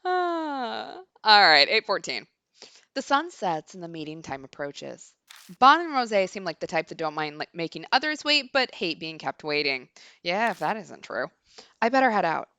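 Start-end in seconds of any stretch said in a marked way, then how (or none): 2.9-12.5 measured reading of game narration; story narration. A narrator's reading. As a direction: read it like an inner monologue. Reads the game's narration aloud.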